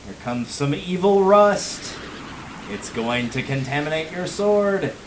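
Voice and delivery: slow rising mock warning; hammed-up ominous announcement, building on each phrase; mock-dramatic. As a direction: draw it out like impending doom, playfully. Mock-dramatic narration of an enemy attack.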